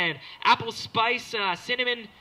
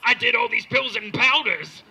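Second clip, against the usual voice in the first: louder, laughing boast; proud dealer; 6 semitones higher, 9 dB louder than usual. Retold or imitated. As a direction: boast while cracking up. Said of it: "And, like, the".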